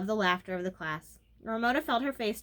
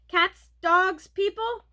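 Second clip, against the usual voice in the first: flustered, giggly; 10 semitones higher, 9 dB louder, much slower than usual. A narrator's reading. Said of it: "The giggle came back".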